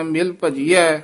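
ਭਜੀਐ said lightly, without force on ਭ; ਭਜੀਐ ਪੋਲਾ; soft ਭਜੀਐ. Shown as a demonstration. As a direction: say ਭਜੀਐ softly, not pressed. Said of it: "ਭਜੀਐ ਪੋਲਾ ਹੀ ਬੋਲਣਾ ਹੈ".

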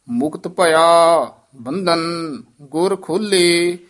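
ਭਇਆ held, a gap after ਬੰਧਨ, tight ਖੋਲੇ; pauses between phrases. Shown as a demonstration. Teacher puts the line together, stops after ਭਇਆ and ਬੰਧਨ. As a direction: set ਬੰਧਨ apart and press ਖੋਲੇ. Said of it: "ਇੱਥੇ ਵੀ ਥੋੜ੍ਹਾ ਜਿਹਾ ਠਹਿਰਾ".

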